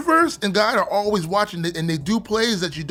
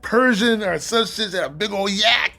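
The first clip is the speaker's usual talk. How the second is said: laughing; 4 semitones higher than usual. Real, not acted. Laughing about the case manager.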